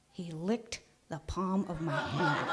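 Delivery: slow, laughing through the words; can't keep from laughing as you tell it. Real, not acted. Storyteller recalls her brother licking her hand, laughing.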